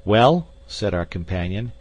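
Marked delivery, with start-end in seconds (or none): 0.1-0.5 loud, higher one-word challenge; calling back. A narrator's reading. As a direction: answer a distant shout defiantly. Companion calls back across the abyss.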